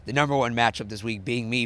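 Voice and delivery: losing his voice, a bit squeaky; hoarse voice. Real, not acted. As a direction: push through a dying voice. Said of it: "me versus my dying voice".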